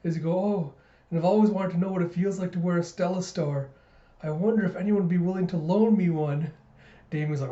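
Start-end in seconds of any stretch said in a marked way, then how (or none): 0.4-6.5 higher, put-on wistful hinting; wistful act. George fishes to borrow a Stella Star, mock wistful. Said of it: "catching on to his act".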